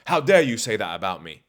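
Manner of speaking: loud, offended outburst in jest; mock indignation. Mock Bond losing his composure.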